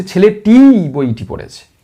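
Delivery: ছেলেটি said with weight at the start; stress on ছেলেটি. Shown as a demonstration. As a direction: lean on ছেলেটি. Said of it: "ছেলেটিকে জোর দিয়ে বলছি".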